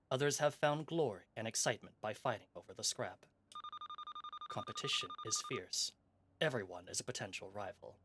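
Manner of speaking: measured trailer narration; story narration. A narrator's reading. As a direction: read it like a game intro. Reads the game intro.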